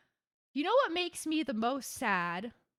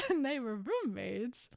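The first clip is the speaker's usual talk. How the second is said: softer, dry repeat of roommates; knowing deadpan; 5 dB quieter than usual. Real, not acted. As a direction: drop it quietly, as if it proves everything.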